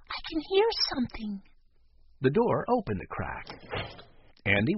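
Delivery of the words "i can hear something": put-on excited child voice. A narrator's reading. Boy whispering at door.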